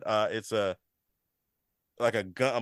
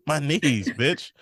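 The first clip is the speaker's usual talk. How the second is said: slow, higher mock Ellie complaining about her knees; a playful, drawn-out impression of a teen groaning; imitating Ellie; 5 semitones higher, much slower than usual. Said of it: "she said".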